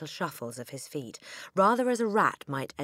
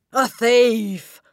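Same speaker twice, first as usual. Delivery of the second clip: high, full-force accusing shout; screaming; 9 semitones higher, 16 dB louder than usual. A narrator's reading. Headmistress accusing the boy, screaming. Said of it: "the Trunchbull screamed".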